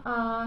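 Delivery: "आ" drawn out slowly with free breath; open vowel demo. Shown as a demonstration. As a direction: let "आ" stream out unhindered. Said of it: "जब हम स्वर बोलेंगे आ".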